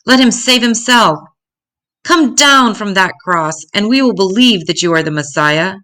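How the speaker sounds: a taunting voice from the crowd at the cross; jeering. Acted. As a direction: sneer the dare up at the cross. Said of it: "jeering at Jesus".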